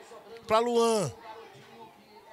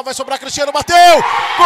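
rising excitement; 11 dB louder, faster than usual. Real, not acted. Build-up to the goal.

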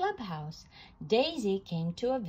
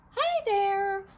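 high, loud giant's hail; giant calling out; 10 semitones higher, 5 dB louder than usual. A narrator's reading. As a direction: call out a big friendly greeting from high up. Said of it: "called Willy the Giant".

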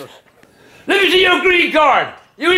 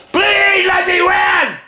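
desperate pleading; 3 semitones higher, much slower than usual. Real, not acted. Begging the game for a win.

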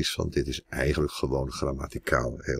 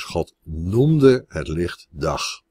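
slow reading; 5 dB louder, much slower than usual. Shown as a demonstration. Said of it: "de E S V geeft dus".

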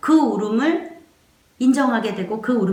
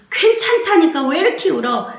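higher-pitched, exasperated mock scolding; exasperated parent; 7 semitones higher, 3 dB louder than usual. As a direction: play a mother losing patience with crying. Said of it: "이렇게 넘어간다고 제가 얘기했잖아요".

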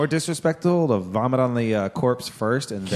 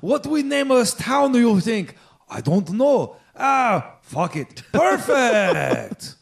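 hammed-up stereotypical Asian accent, pitched higher; 8 semitones higher, 3 dB louder, much slower than usual. Podcast host naming a town in a mock Asian accent, hammed-up and high. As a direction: put on a broad stereotypical Asian accent for a joke town name. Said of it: "We'll just go stereotypical Asian".

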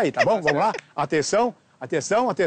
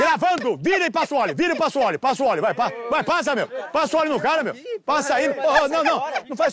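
higher, pushy director urging the actor on; mock frantic urging; 6 semitones higher than usual. Director pressing the hesitant actor to start, higher and urgent. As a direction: hurry him, half laughing, higher pitched.

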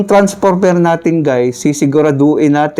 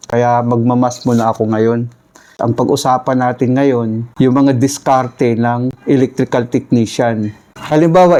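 toothless lisp without dentures; missing front teeth. Real, not acted. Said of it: "kung nagmamas ako kasi bungal kasi ako eh".

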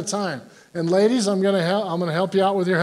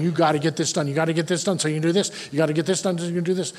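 mock pressure; much faster than usual. Mocks being pushed to hurry.

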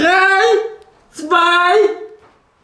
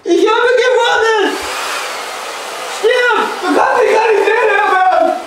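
shouting; faster than usual. Acted. Shouting taunts during the game.

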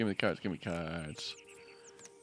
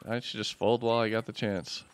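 ordinary talk, nothing marked

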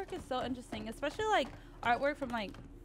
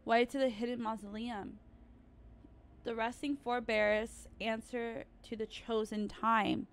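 put-on slow, measured reading of old words; reading an inscription; slower than usual. Player reading a mausoleum inscription, slow and solemn. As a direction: read it out like an ancient riddle. Reads in-game inscription aloud.

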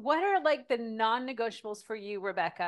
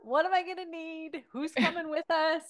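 anxious rapid questions; 7 semitones higher, 5 dB louder than usual. Retold or imitated. Acting out a worried follower.

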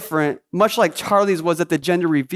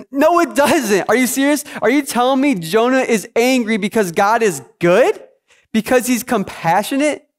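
higher, rising questions of disbelief; incredulous; 3 semitones higher than usual. Acted. Preacher questioning why Jonah is angry at God's goodness, incredulous. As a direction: challenge it as if it cannot be true.

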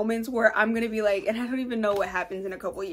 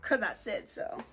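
whispered resolve; 2 semitones lower, 9 dB quieter than usual. Real, not acted. Firm soft declaration.

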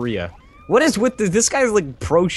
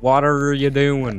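slow, higher mock-Aussie drawl; Australian attempt drifting toward Dutch; bad Australian accent; 4 semitones higher, slower than usual. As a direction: drag out a faked Australian accent. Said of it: "It's like Netherlands".

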